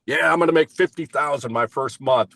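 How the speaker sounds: a touch of mock bravado, voice lifted; mock overeager rookie. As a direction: play the overconfident newcomer a little. Mimics overeager new sales rep.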